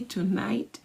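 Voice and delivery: slow, hushed affirmation fading to a whisper; softly intoned manifesting affirmation; affirmation read. Shown as a demonstration. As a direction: speak it like a quiet vow. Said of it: "you're gonna say".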